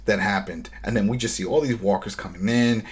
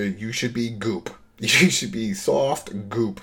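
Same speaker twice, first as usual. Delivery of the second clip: slow laughing mock scorn; slower than usual. Podcaster scoffing at walkers, slow and laughing. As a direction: draw it out through laughter, scoffing.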